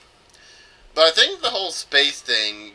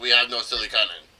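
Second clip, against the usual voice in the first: mock Russian accent. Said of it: "it wasn't a Russian accent".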